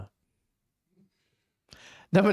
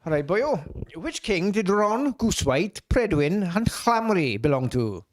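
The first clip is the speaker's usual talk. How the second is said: put-on Welsh accent; 3 semitones higher than usual. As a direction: read the quiz question in a Welsh accent. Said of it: "Let's see your Welsh accent".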